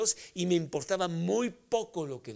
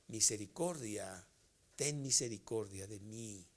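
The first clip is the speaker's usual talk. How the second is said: pleading; 5 semitones lower, 3 dB quieter than usual. Acted. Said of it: "y grita".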